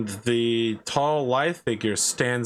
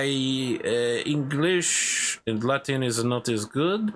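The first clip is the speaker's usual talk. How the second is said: courtly knight, rising on questions; a proud knight teasing about his companion; fey knight; 3 semitones higher than usual. Acted. GM voicing the knight answering the players.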